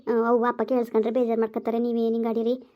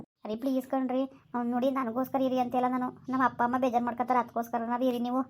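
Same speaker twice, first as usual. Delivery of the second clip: soft pleading; 6 dB quieter than usual. Acted. Wife pleads with husband to stay.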